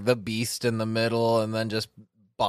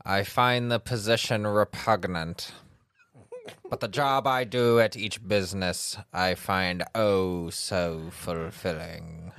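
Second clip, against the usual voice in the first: calm psychopath. Pretend. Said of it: "my serial killer voice".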